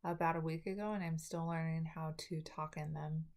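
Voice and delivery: talking around new braces. Real, not acted. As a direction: speak like braces just went on. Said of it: "Please try to bear with me as I got my braces on".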